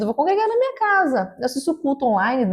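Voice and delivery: imitação leve, mais aguda, de quem se justifica; desculpa imitada. Retold or imitated. Imita quem evita a igreja. (imitando desculpa em tom agudo)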